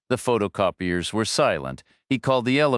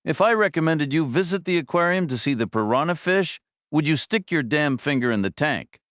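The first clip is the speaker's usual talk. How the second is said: scornful yell; 8 semitones higher than usual. A narrator's reading. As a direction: berate the boss as a moron. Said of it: "the guy yelled back".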